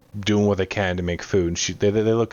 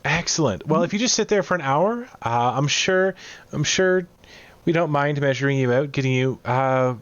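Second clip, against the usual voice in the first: higher, bustling cook voice; helpful cook; 5 semitones higher than usual. Acted. Cook offers to measure visitors for armbands, high and obliging. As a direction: play an obliging cook with a raised pitch.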